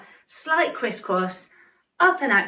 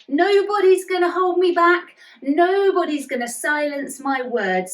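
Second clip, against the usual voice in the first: raised, defiant no; 6 semitones higher, 4 dB louder than usual. Shown as a demonstration. Teacher to kids, defiant nobody's gonna hold me back. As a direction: wag a finger, refuse firmly. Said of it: "wag them at me, saying".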